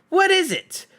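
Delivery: high, loud troll voice; curious trolls. Acted. Trolls gather to see the catch, loud and high. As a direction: call out the question like a lumbering troll.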